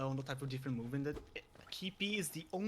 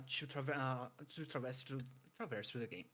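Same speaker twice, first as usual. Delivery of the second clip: out of breath; 3 semitones lower, 4 dB quieter than usual. Real, not acted. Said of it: "Let me just catch my breath".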